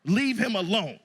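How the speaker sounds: a hint of a scolding wife, slow; mock-scold like a stern wife; wife shushing her husband, lightly scolding; wife mode. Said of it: "you heard her go right into wife mode".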